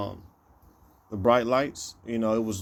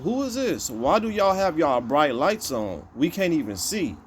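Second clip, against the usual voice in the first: higher-pitched calling out, only mildly raised; retold loud demand; 5 semitones higher than usual. Brother challenges car with bright lights, mock loud demand. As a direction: imitate calling to someone thirty feet off. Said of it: "had to say it loudly".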